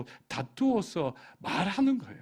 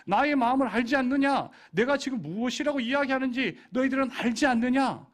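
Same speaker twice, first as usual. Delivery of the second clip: raised, pleading voice of God; a God arguing his case, raised and urgent; God pleading with his people; 6 semitones higher, 5 dB louder than usual. Acted. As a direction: plead with them as an exasperated God. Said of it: "말하는 거예요".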